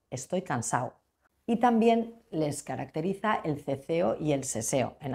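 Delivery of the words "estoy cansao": "cansado" como "cansao", más grave; cómete la D de "cansado"; D omitida. Shown as a demonstration. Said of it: "no pronuncian la D". ("cansado" a la andaluza, terminado en -ao)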